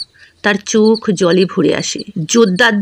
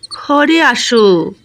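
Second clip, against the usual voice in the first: slow, hesitant plea; frightened wife coaxing her angry husband, slow; timid; much slower than usual. Acted. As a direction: ask him in meekly. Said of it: "ময়না বলে ভয়ে ভয়ে".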